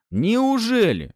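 slow, high drawn-out sarcasm; sarcastic doubt. A narrator's reading. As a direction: stretch it in disbelief. Fyodor sarcastic.

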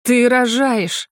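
slow, stunned cry of realization; drawn out in alarm; voiced as another woman, a shocked exclaim; shocked gasp. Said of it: "ахнула Галя".

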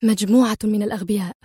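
fast, mildly sharp scorn. Acted. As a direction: spit it out quickly, irritated. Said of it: "وهي تقول في حدة".

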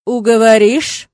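menacing. A narrator's reading. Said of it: "недобро прищурился графин".

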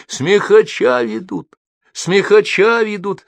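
high, loud, drawn-out announcement; crowd calling out. A narrator's reading. Onlookers along the living corridor spread news, calling out. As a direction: cry the news down the line.

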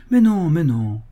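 eager protesting cry; exclaiming. Acted. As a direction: burst in to cut him off. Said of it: "s'écria Bernard".

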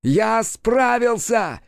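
very high, very slow screech; a piercing, drawn-out demon screech; demon shrieking. A narrator's reading. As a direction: shriek the triumph. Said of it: "верещал он".

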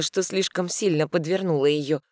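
ordinary delivery

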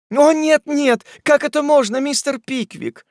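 very high, loud feminine protest; high, indignant objection; protesting young ladies. Acted. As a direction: cry out like two shocked ladies. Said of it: "вскричали Эмилия и Арабелла в один голос".

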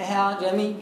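"أعجمي" with a light h sound in the eased second hamza; low recited "أعجمي" opening on a soft h-like glide; tinged with h. Shown as a demonstration. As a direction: recite "أعجمي" letting a little هاء into the opening. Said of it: "جزء من الهاء".

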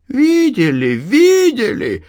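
high, loud flare of anger; boiling over. A narrator's reading. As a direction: snap back hot with rage. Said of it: "вскипела Анна". (вскипела, громко и высоко)

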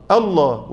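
الله with a plain, light hamza; correct recitation. Shown as a demonstration. Teacher modelling the correct light hamza. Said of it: "أقول إيه؟".

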